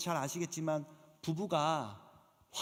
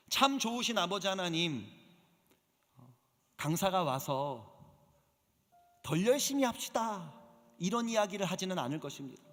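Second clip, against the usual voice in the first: earnest prayer. Acted. Pastor praying for the teachers, reverent and measured. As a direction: pray over the teachers with reverent pauses.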